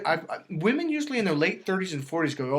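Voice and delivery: ordinary talk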